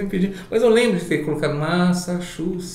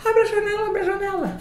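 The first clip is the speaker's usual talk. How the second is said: high, frantic cry to open the window; retold scream. Screaming friend begging the narrator to open the window, high frantic cry. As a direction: shriek it up high like she's desperate. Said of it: "ela começou a gritar".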